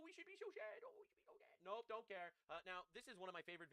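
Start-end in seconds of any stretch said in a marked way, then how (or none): 0.0-0.8 higher, sarcastic fake-sad whine; mock pity pitched high; mock sadness. 0.9-1.5 whispered fake sorrow; hushed sarcastic pity; mock whisper.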